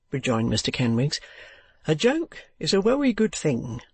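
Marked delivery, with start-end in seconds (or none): 1.9-3.8 higher, pompous Cockney lecture; pompous husband. A narrator's reading. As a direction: lecture the friend grandly. Pompous reproof with "wery.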